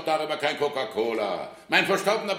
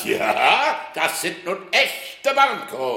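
laughing boast; 4 semitones higher, 4 dB louder, much slower than usual. Acted.

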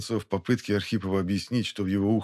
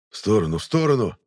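urgent shout; 5 dB louder than usual. Acted. Warning to step aside.

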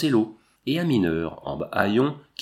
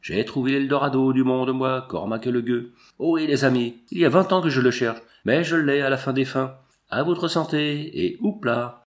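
put-on drunken shouting; 2 semitones higher than usual. Drunk miner shouting in the lanes.

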